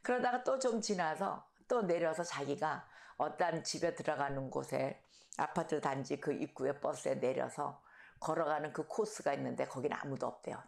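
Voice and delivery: ordinary delivery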